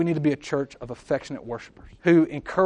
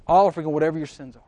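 fast emphatic repeat; 4 dB louder, much faster than usual. Shown as a demonstration.

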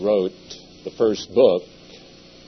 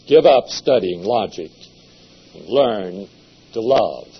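voice of conscience; 3 semitones higher, 7 dB louder than usual. Acted. Conscience advises the monks and friars, a loud admonishing call. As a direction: scold the friars as conscience would. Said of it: "conscience says".

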